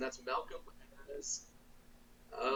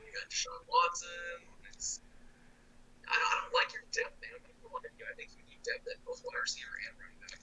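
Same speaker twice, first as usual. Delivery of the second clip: underwater; 5 dB quieter than usual. Real, not acted. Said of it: "you sound like you're underwater right now".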